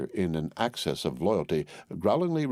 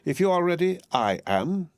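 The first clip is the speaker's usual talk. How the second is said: high, bright and ready, much higher; raring to go, a step louder; eager Miss Pross; 10 semitones higher, 3 dB louder than usual. A narrator's reading. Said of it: "said Miss Pross".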